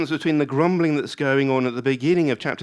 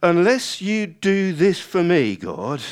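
loud, high, slow ultimatum; testing God; 7 semitones higher, 7 dB louder, slower than usual. Acted. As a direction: lay down a demand to God, loudly. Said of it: "what starts as grumbling can morph into testing".

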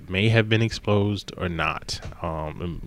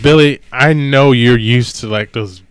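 pleading director; 5 semitones higher, 10 dB louder than usual. Retold or imitated. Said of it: "He's like".

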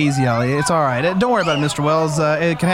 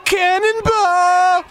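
long high drawn-out yell; cannonball yell; 14 semitones higher, much slower than usual. Acted. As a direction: holler it as you jump. Jumping into pool, yelling.

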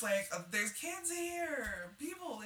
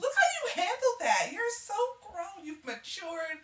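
proud self-praise; 9 semitones higher, 8 dB louder, slower than usual. Retold or imitated. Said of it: "I was like".

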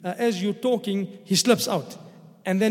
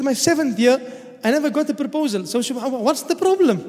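indignant retort; 4 semitones higher than usual. Retold or imitated. Preacher retelling his own reply.

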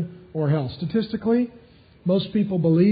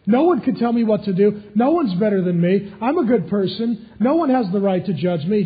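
defiant attitude; 3 semitones higher, 4 dB louder than usual. Retold or imitated. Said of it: "living with that attitude".

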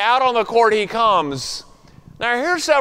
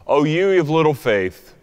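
hushed rebuke; 5 semitones lower than usual. Acted. Jesus rebukes Peter.

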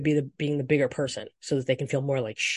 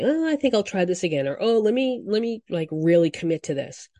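hopeful imitation; 3 semitones higher than usual. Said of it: "they become a little bit more hopeful".

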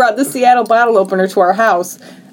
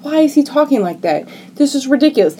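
higher-pitched, incredulous questioning; baffled disbelief; 3 semitones higher than usual. Retold or imitated. Podcast host reliving first hearing the actor's accent, baffled. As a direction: recount your bewildered reaction.

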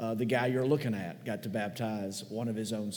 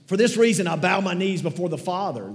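much higher and louder, a proclaimed scripture reading; 6 semitones higher, 8 dB louder than usual. Shown as a demonstration. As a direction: announce the verse with full force. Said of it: "if you're not there yet".

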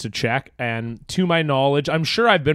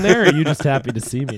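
fast, laughing punchline; giggling quick joke; laughing tease; 2 semitones higher, faster than usual. Real, not acted.

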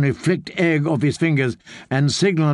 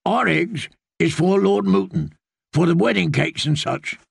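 put-on old farmer's squawk; 4 semitones higher than usual. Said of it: "The old man squawked".

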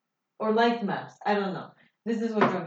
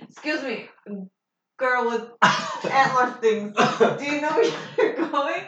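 laughing character voice; 3 semitones higher, 5 dB louder than usual. Acted. Addressing character in-game, laughing.

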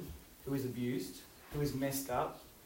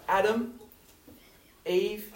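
gentle call; 7 semitones higher, 3 dB louder, slower than usual. Retold or imitated. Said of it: "he doesn't get angry".

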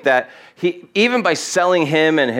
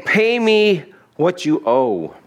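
slow, higher, pressing threat; menacing demand; 5 semitones higher, slower than usual. Acted. Servant choking his debtor, demanding slow and menacing. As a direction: spit it out slowly with the hands on his throat.

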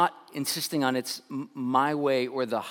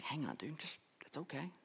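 soft whisper to calm him; hushed; 4 semitones higher, 15 dB quieter than usual. Retold or imitated. Friends calming the angry golfer, soft whisper. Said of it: "the rest of us were like".

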